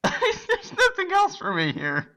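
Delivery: high, drawn out through real laughter; laughing helplessly. Real, not acted. Host broken by the bit, really laughing through the words. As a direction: squeeze the words out while cracking up. Cracked up, can't go on.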